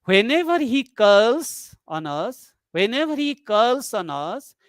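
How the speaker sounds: unfinished clause, "calls" stretched; suspended tone through "calls on us"; non-terminal tone. Shown as a demonstration. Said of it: "non-terminal tone groups".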